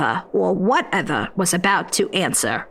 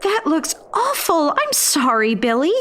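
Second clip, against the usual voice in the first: Jonquil crying out; 7 semitones higher than usual. Acted. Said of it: "Jonquil cried out".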